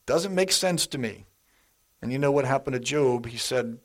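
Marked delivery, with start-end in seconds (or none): 0.0-1.2 Job's desperate plea. Retold or imitated. Preacher voicing Job demanding answers from God, high exasperated plea. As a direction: throw the question up at God, exasperated. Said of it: "Job said this".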